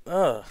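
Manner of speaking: disgusted ugh. Real, not acted. Disgust at a disliked design.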